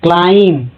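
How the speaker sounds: क्लाइम ending on M, no B; silent B. Shown as a demonstration. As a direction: leave the B out at the end of क्लाइम. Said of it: "यहाँ पर बी silent है". (क्लाइम, आख़िर में सिर्फ़ म, ब नहीं)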